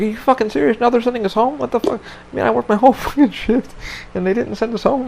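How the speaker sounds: ranting like a fed-up tech; pissed off coworker. Retold or imitated. Tech complaining about being sent home, mock indignant rant. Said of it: "my techs were fucking pissed".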